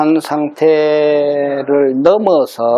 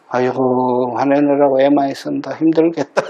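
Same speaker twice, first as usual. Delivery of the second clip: unruffled monk's sympathy. Retold or imitated. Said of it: "스님 앞에 와서 누가 막 화를 내면".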